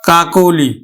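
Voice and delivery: কাকলি with the first অ said like ও, কোকলি; careful pronunciation. Shown as a demonstration. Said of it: "আমরা উচ্চারণ করলাম কিন্তু". (কাকলি শব্দটি কোকলি উচ্চারণে)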